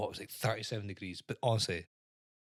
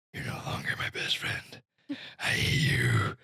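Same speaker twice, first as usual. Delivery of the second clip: put-on breathy whispered child falling out with a friend; a hint of a huffy little girl; the wee girl quarrelling with her friend, mock sulky; 10 semitones lower than usual. Kids quarrelling, voiced.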